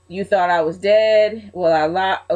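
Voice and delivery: badly faked Latino wrestler accent, slow; Eddie, horrible accent. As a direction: attempt a Latino accent, clumsily. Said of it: "very sorry about that horrible accent".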